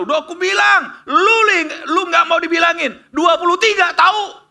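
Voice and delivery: high, loud taunting crow; gloating cheer. Retold or imitated. Buyer gloats at the student going home, high loud taunt. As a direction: rub it in as you leave victorious. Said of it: "pulang dengan sorak-sorai".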